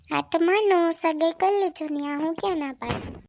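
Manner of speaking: put-on upset girlfriend daring him to get engaged; angry retort. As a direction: hurl it back at him. Girlfriend snaps back angrily.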